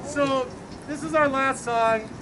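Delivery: teacher voice. Real, not acted. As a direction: address the room like a teacher. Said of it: "I'll use my teacher voice".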